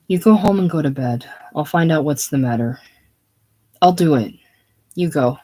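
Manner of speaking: decide it and send her off fast; swift resolution. Acted. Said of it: "with swift resolution".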